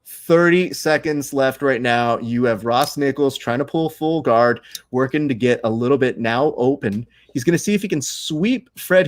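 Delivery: live grappling commentary with stretched, punched words; play-by-play. Shown as a demonstration. Commentator calls the last thirty seconds, play-by-play delivery. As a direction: call the match like a sports commentator. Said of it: "let me go and give you a, a slight play-by-play now".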